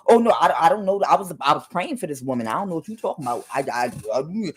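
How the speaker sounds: a hint of a caught prosperity pastor. A prosperity pastor caught with a prostitute, mock flustered denial. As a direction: stammer an innocent excuse. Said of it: "one of those prosperity pastors".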